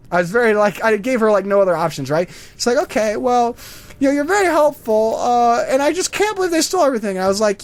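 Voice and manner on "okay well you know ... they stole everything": high-pitched old lady impression; put-on elderly voice, pitched up; elderly woman. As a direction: mimic an old woman rambling through her questions. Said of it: "it's this old elderly woman".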